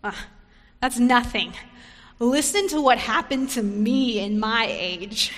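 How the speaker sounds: one-upping. Pretend. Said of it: "She doesn't say".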